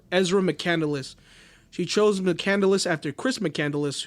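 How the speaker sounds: ordinary delivery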